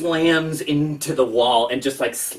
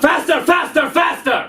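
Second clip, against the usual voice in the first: rising high excited chant of faster; urging faster; 13 semitones higher, 5 dB louder than usual. Acted. DM urging the villain on, escalating excited chant. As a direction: egg them on, louder each time.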